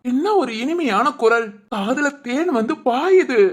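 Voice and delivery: slow, savouring mock praise; husband teasing wife about her sweet voice, slow and rapturous; hammed-up rapture. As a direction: drag it out like honey, teasing.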